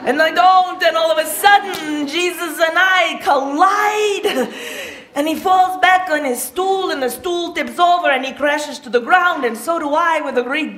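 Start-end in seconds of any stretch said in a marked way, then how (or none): 0.1-6.9 calls it out louder, slowing on collide; building shout. Acted. Telling the crowd of the crash into Jesus, loud.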